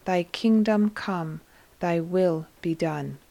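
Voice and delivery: "Thy kingdom come, thy will be done" said slowly, each word weighted; slow, emphatic prayer. A narrator's reading. Jesus says the Lord's Prayer with Mary, "Thy kingdom come, thy will be done" slowly stressed. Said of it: "He emphasizes the words".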